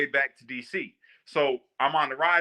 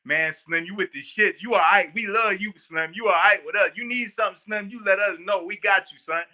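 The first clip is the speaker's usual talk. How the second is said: friendly inmates; 4 semitones higher, 4 dB louder than usual. Retold or imitated. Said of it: "And they go".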